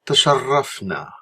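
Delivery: slow, careful Arabic Tasharrafna; teacher modelling the reply; Arabic model word. Shown as a demonstration. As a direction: model Tasharrafna clearly for the class. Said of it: "is to say".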